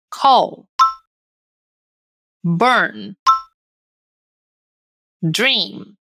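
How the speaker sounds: "Call", "Burn", "Dream" isolated, voiced endings humming; repeat-after-me model. Shown as a demonstration. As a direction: let the final sound vibrate in "Call", "Burn", "Dream". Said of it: "Repete depois de mim". ("Call", "Burn", "Dream" isolados, com final vozeado)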